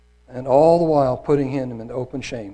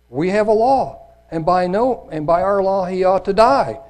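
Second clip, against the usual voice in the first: Jews insisting; 5 semitones higher, 5 dB louder than usual. Acted. Jews answer Pilate.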